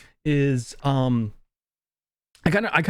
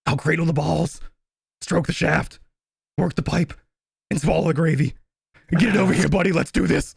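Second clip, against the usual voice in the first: deadpan movie quote. Retold or imitated. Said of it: "struggle to make it through this with a straight face".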